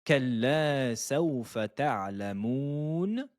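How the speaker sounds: measured tajweed chant of the verse; Quran recitation. Shown as a demonstration. Teacher reciting the verse for students, chanted. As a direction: recite it clearly for students to copy. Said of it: "Troisième verset".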